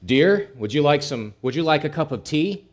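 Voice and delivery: calling out mildly to a spouse; loud voice. Acted. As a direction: call to your wife in the next room. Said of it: "he said in a loud voice".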